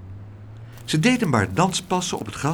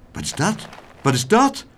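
curious calling; 8 semitones higher than usual. A narrator's reading. The others question meneer Tump about his parcels, curious. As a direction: ask twice, more insistently the second time. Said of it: "riepen de anderen nieuwsgierig".

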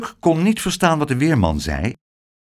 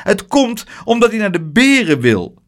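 sighed; 8 semitones higher than usual. A narrator's reading. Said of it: "zuchtte tante Pleeg".

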